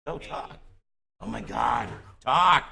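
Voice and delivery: exasperated yell. Real, not acted. Host exasperated at guest.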